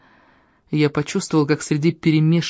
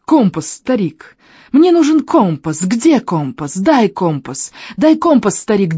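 high, gurgling, hysterical demand from a monster; 5 semitones higher, slower than usual. Acted. Hound demanding the compass from the old shaman, hysterically high. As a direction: choke out the demands in a frantic high pitch. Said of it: "неестественно высокий мужской голос".

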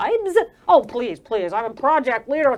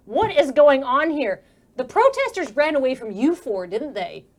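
pointed question; 2 semitones higher, 4 dB louder than usual. Acted. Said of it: "she turns to you, Avenir, and says".

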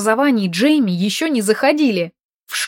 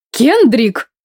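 sharp rebuke; 4 semitones higher, 5 dB louder than usual. Acted. Mother scolds son sharply.

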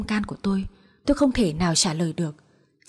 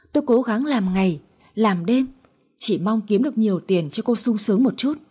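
angry husband's tirade. Acted. Husband berates crying wife.

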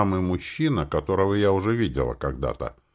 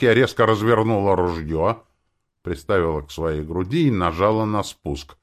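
ordinary delivery, nothing marked

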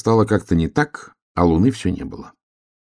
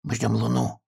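тихо, почти шёпотом; прошепчи, чтобы не спугнуть; 4 semitones higher, 6 dB quieter than usual. Acted. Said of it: "прошептал ёжик". (ёжик шепчет в бочке, тихо, почти шёпотом)

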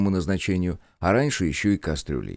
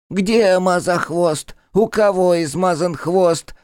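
high, slow, loud little creature; squeaky bat creature; 11 semitones higher, 6 dB louder, slower than usual. Acted. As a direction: pipe up like a nosy little bat. Bat Gavroche voiced.

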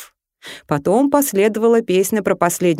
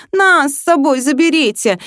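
мольба; 8 semitones higher, 4 dB louder than usual. Acted. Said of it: "в два голоса взмолились напарники".

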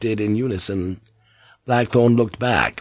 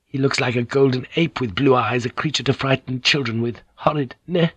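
put-on higher, sneering young woman; disdainful young woman; 3 semitones higher than usual. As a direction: wrinkle the nose at him. Fujiko voiced.

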